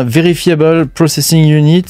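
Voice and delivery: English term in a French accent. Real, not acted. Host naming a machine to viewers, French-accented English. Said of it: "avec mon super accent".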